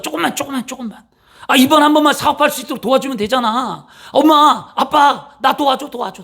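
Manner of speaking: high whiny begging for help; whining child. Retold or imitated. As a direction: beg mom and dad over and over. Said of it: "이거 뭐냐면 이겁니다". (엄마 아빠한테 징징대며 조르는 자식)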